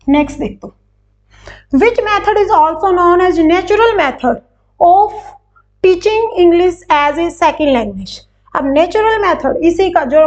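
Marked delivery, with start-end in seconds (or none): 1.7-8.2 slow question reading. Shown as a demonstration. Teacher reading out exam question.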